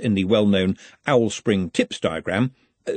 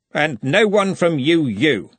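flatly; 6 semitones higher, 4 dB louder, slower than usual. A narrator's reading. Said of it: "said Ridcully flatly".

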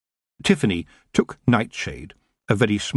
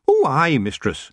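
high, cheery Scots clansman; bright "aye" pitched high, dropping away; cheerfully agreeable Scottish voice; cheerful Rob; 6 semitones higher, 3 dB louder, slower than usual. A narrator's reading. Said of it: "said Rob cheerfully".

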